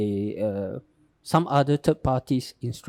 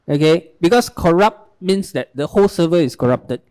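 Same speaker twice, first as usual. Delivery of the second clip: speaking louder. Real, not acted. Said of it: "Please speak louder".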